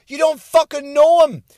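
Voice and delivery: normal talking voice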